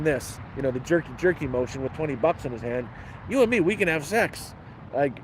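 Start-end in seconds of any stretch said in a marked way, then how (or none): 3.3-4.5 imitated Indian accent, pitched up; retold come-on in a mock Indian accent. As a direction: lightly mimic a stranger's Indian accent, higher. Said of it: "Indian accent".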